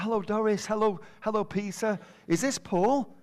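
a hint of a bright old grandmother; grandmother's greeting. Grandmother cooing over the new baby, mock cheerful.

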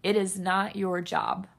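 "It is not your job" said slowly, each word set apart; slow down and land "It is not your job" deliberately; slow careful restart. Shown as a demonstration. Restarting after tripping over words, slowly and deliberately. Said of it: "I'm tripping over my words".

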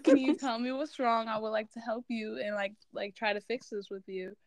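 the calm way she wishes mom would ask; calmly. Retold or imitated. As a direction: ask "Can you tell me what's wrong?" like you truly want to help.

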